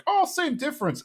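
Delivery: high, breezy brush-off; flippant Khan. Retold or imitated. Khan brushing off the Laotian guests, breezy and high. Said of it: "And Khan's like".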